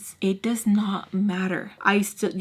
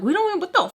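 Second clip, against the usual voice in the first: defensive snap; 4 semitones higher than usual. Retold or imitated. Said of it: "I was getting mad".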